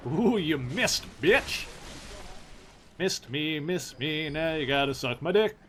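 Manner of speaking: singsong taunt at a miss; dunk tank heckler. Pretend. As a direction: jeer like a dunk tank clown. Taunting enemy after a dodge.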